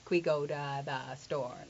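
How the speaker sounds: "Can we" said as a single "kwee"; casual reduced speech. Shown as a demonstration. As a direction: blend "Can we" into one syllable, kwee. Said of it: "I just said, "Qui".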